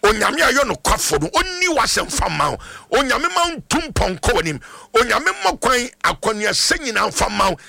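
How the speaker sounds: insistent blessing in driving phrases; fervent prayer. Real, not acted. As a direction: pray a blessing over the caller with conviction. Prays for a caller on air.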